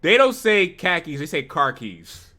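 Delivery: mock Boston accent, khakis said as car keys; loud mock Boston "car keys" for khakis; playful Boston accent imitation. Shown as a demonstration. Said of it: "that's more of a Boston thing".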